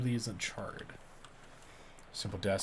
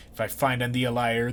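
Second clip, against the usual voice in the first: stern oath; 6 dB louder than usual. Acted. Woodcutter interrogates trees, archaic voice.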